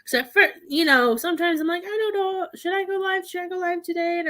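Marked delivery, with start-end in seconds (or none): 1.8-4.2 acted dithering. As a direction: play up the indecision in a raised voice. Acts out her own dithering.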